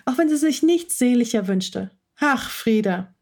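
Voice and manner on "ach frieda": dismissive. Acted. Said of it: "winkte Maya nur ab".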